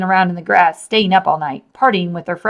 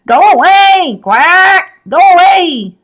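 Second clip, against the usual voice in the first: much higher and louder frantic yell; screaming; 11 semitones higher, 9 dB louder, slower than usual. A narrator's reading. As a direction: shriek it, tearing at your head. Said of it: "quacking at the top of his lungs".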